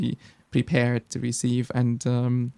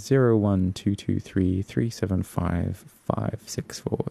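reading digits one by one; slower than usual. Shown as a demonstration. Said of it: "as you know".

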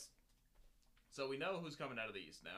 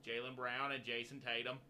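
put-on Boston accent; 3 semitones higher, 5 dB louder than usual. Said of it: "I kinda went Kennedy on that one".

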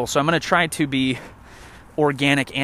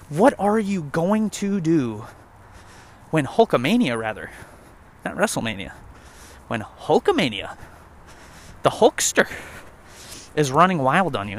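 Hulk Hogan impression.

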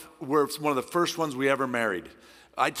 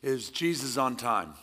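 slow, weighty title; announcing the sermon title; title announced; 2 semitones lower, 3 dB quieter, slower than usual. Real, not acted. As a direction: lay the title down slowly. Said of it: "the title of this is".

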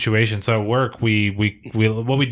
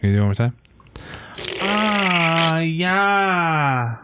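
monotone grandma voice; 5 semitones higher, slower than usual. Pretend. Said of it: "like a good little monotone grandma voice".

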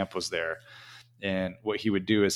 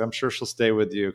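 sarcastic; 2 semitones higher than usual. Retold or imitated. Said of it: "they're, like, sarcastic".

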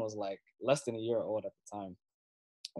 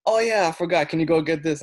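higher, louder mock mom voice; imitating mom; 7 semitones higher, 10 dB louder than usual. Son imitating his mom at the grocery store, higher and louder. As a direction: play the mom who forgot something. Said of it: "she'll be like".

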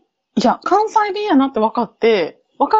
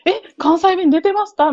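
mock surprise; 8 semitones higher than usual. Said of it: "みたいになってるのが".

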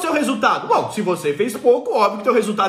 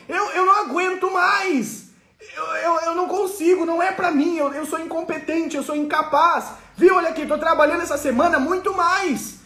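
hammed-up hopeless lament; defeated worker; 3 semitones higher than usual. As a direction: whine that the poor stay poor. Acted poor worker's lament.

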